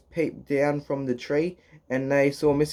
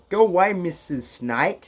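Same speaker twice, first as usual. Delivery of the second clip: loud call; 4 semitones higher than usual. Acted. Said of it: "she called in a loud voice".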